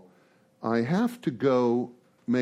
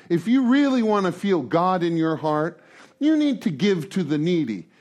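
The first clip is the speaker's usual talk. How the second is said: mocking a preachy man; 3 semitones higher than usual. Mocking a man sharing at meeting.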